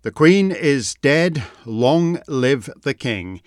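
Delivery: slow, measured royal formula; unhurried, subdued pronouncement; solemn. Real, not acted. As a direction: say it slowly and gravely, falling at the end. Solemn statement of the royal succession.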